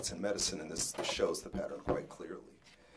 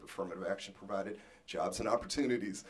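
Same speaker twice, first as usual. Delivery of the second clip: fast; faster than usual. Real, not acted. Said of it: "I'm now talking like an auctioneer".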